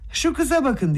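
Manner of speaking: high, sharp cry of amazement; high-pitched exclamation; exclaiming. A narrator's reading. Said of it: "diye haykırdı".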